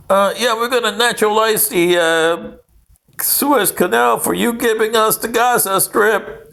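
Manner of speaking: a lightly voiced Nasser, chuckling through it; mock Nasser, laughing. Nasser taunting the British over Gaza, laughing lightly. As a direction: gloat with a laugh in the voice. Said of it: "what Gaddafi Abdel Nasser said".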